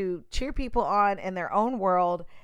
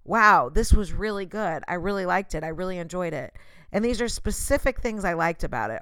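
sincere praise. Shown as a demonstration. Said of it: "is just say".

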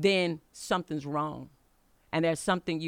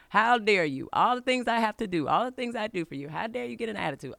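going off; 5 semitones higher than usual. Retold or imitated. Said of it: "just going off on her".

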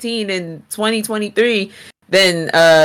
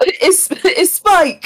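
goofy drawn-out voice; 10 semitones higher, much slower than usual. Pretend. Slow goofy voice.

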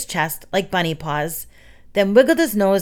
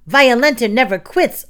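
loud, raised defiant boast; hammed-up fighter's cry; bellow; 5 semitones higher, 5 dB louder than usual. A narrator's reading. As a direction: bellow it like a ring champion. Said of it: "Roach bellowed".

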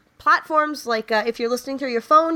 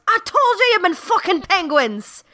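high-pitched, indignant cry; exasperated punchline outburst; 9 semitones higher than usual. Acted. Smart leprechaun beating the drunk one, crying out in exasperation. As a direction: blurt it out high, scolding and fed up.

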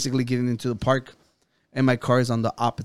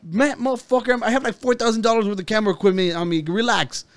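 high, fast, heated comeback; imitating a furious outburst in a raised pitch; retold angry rant; 6 semitones higher than usual. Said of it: "I got so mad".

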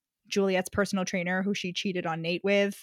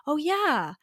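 higher-pitched mock lightbulb moment; drawn-out, sing-song dawning realization; 4 semitones higher, slower than usual. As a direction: voice his belated discovery, mockingly. Mocking Nate's late realization.

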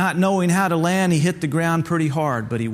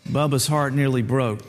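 usual speaking voice

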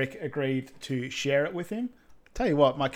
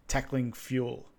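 slow emphasis; 4 dB quieter, slower than usual. Retold or imitated. Coach's advice, echoed by player.

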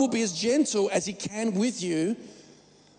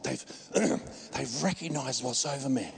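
mock prophet; 5 semitones lower, 4 dB quieter than usual.

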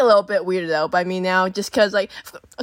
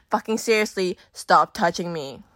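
retold serious warning; 3 semitones lower than usual. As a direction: drop the fake laugh, turn firm. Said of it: "that I was being serious".

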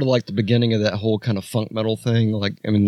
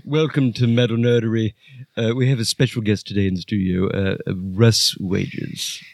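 Nigel voice; 3 semitones higher than usual. Acted. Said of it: "Thanks, Nigel".

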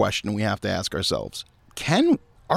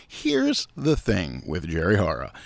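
lower, measured title read; mock show announcer; 5 semitones lower than usual. Host jokingly plugging a new weekly show, mock announcer.

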